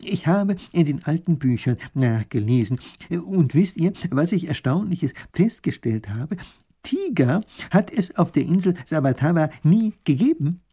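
put-on an excited old scholar sharing news; wise professor. Professor telling the duke his discovery, eager.

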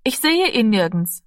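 drängend und etwas lauter; dringend. Acted. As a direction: besorgt nachdrücklich sagen. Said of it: "sagte sie dringend". (dringliche, besorgte Mädchenstimme)

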